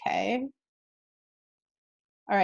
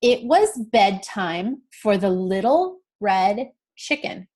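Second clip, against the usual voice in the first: slow read-along; slower than usual. Shown as a demonstration. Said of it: "let's read this again together".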